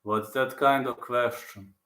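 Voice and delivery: slow, measured fighter's answer; lightly voiced impression, words drawn out; Prohaska impression. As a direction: take it slowly, in character. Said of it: "I know Prohaska's impression really good".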